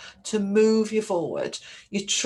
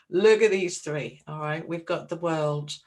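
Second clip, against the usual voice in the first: ordinary talk, nothing marked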